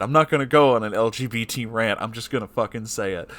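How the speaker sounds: ordinary talk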